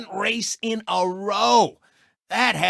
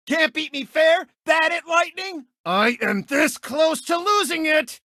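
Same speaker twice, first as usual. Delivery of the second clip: 1 angry taunt; 5 semitones higher than usual. Acted. Chick taunting, then losing temper.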